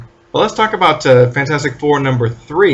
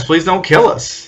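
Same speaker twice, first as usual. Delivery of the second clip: higher, drawn-out mock plea; mock begging; 5 semitones higher than usual. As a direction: imitate wimps pleading for mercy, slowly. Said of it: "begging for their lives".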